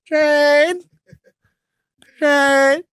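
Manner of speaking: high calling mom voice; mom yelling. Retold or imitated. Mom calling her son through the door. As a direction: call the name up high like a nagging mom. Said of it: "She'll stand outside your door".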